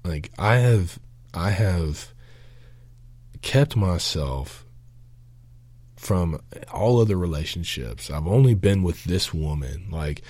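retold prayer in the shower, a mild angry protest; angry at God. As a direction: lay out your grievance to God, each word pressed. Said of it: "I was angry with him too".

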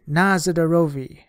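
loud answering cheer; party guests cheering the toast; shouted toast. Acted. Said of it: "half a dozen voices shouted".

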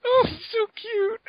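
squealing high fangirl; excited anime fan. Real, not acted. Gushing over cute character.

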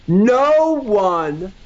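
leaning right into the mic; close to the mic. Shown as a demonstration. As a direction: say it close-up, for weight. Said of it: "let me get closer when I say that".

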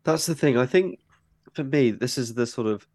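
talking through a blocked-up nose; stuffy-nosed, congested speech. Real, not acted. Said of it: "sorry, I'm still quite blocked up".

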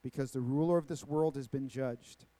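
measured, deliberate Bible reading; preacher reading aloud with weighted key words; scripture reading. Acted. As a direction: read the passage solemnly, phrase by phrase. Reads scripture aloud to congregation.

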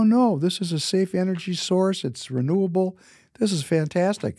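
high, bright-eyed insistence on safe energy; eager defense. Retold or imitated. Boy telling his mother nuclear power is safe: eager, excited defense. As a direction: sell it like a kid who's sure he's right. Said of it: "I go".

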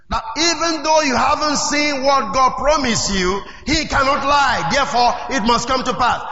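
rising preacher's cry, building to a shout; preaching. Acted. Pastor urging the congregation to believe, preaching hard. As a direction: drive it home to the congregation.

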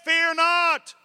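high, loud repeated command; Jesus answering the fearful disciple; firm shout. Retold or imitated. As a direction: insist on it again, firmly. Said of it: "I said".

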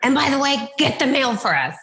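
high friendly call; cheery welcome. Retold or imitated. Elderly couple welcoming the realtor, high and cheery. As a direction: welcome her in like an old friend.

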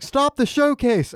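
high, slow mock cry of stop the showcase; mock shout. Friend retelling Marge storming the stage, mock shout. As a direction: belt it out like bursting onstage to halt the show. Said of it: "runs on stage like".

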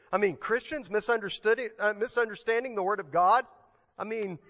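mock disbelief, as if it never happens; feigned puzzlement at the very idea; sarcasm. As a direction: play innocent, tongue in cheek. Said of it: "that's sarcasm, by the way".

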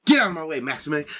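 urgent high-pitched yell; calling down the hall. Acted. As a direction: yell to clear the way, falling off at the end. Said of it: "come from down the hall".

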